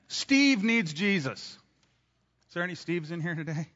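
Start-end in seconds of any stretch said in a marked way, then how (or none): 0.1-1.4 slow example. Shown as a demonstration. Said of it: "Let's throw a name in there".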